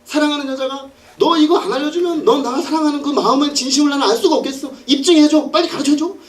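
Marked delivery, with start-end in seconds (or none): 1.2-6.2 high, insistent acted nagging; pestering. Woman nagging Samson to prove his love, high-pitched pestering. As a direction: badger him in a raised pitch. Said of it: "그러면서 매일 졸랐어요".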